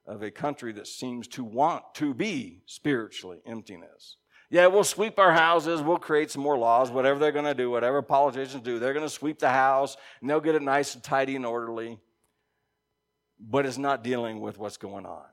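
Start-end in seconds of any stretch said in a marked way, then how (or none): 4.5-12.0 mocking. Mocking world's tidy fixes.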